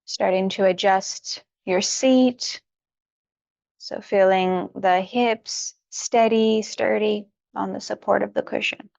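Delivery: unhurried yoga-teacher guidance with long pauses; guided meditation. Real, not acted. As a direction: gently talk them through each stretch, leaving room to breathe. Settles meditators into their seats.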